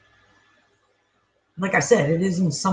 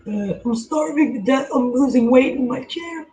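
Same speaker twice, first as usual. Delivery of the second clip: dog's voice, pitched higher and whiny; voicing the hungry dog; 5 semitones higher than usual. Voicing his dog Jake begging for food, higher whiny voice. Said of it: "He's looking at me like".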